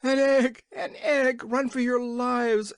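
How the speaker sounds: very high, loud shout of horror; horrified shout. A narrator's reading. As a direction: scream a warning in sheer terror. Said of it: "in a voice of horror".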